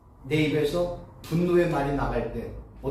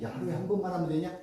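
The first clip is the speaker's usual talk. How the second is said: God urging; 2 semitones lower, 7 dB quieter than usual. Retold or imitated. God voiced urging more prayer.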